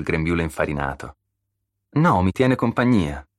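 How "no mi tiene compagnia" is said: higher-pitched, lightly smiling reply; a touch of cheerful fondness. A narrator's reading. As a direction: answer a friend with a smile. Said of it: "disse sorridendo".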